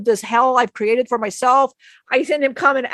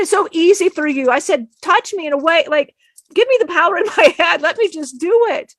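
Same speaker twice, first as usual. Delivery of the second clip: higher-pitched, insistent mock plea; retold pleading; 5 semitones higher than usual. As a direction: act out begging for a shortcut, voice raised in pitch.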